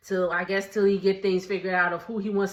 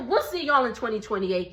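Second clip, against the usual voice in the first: laughing through it. Acted. Repeats farewell while laughing.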